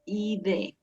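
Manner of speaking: "I D" modelled as the syllable "id"; ID ending sound. Shown as a demonstration. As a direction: sound out "I D" as one short ending. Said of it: "como una".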